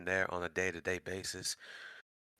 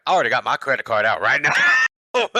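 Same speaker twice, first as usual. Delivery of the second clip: eager laughing quote; 5 semitones higher, 14 dB louder, faster than usual. Retold or imitated. Commenter quoted excitedly.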